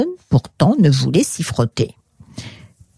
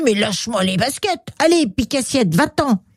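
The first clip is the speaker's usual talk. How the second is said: irritated dismissal; 5 semitones higher than usual. Acted. L'infirmière repousse Pixie.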